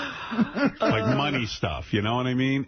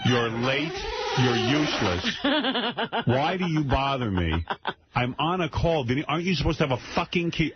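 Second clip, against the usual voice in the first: exasperated scolding; 5 semitones higher than usual. Retold or imitated. Acted scolding of late visitor.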